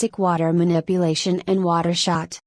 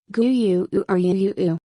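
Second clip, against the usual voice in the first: slime gurgle. Acted. Slime Rimuru answering.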